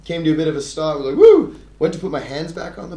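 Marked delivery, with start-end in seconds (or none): 1.2-1.5 retold woo. Relief after nearly crashing.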